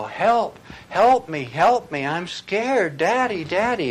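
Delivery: put-on high, loud, scared child's cry; a small boy calling for his daddy in a storm; crying out for help. Frightened boy calls out to daddy in a thunderstorm, high loud cry. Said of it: "he was crying out".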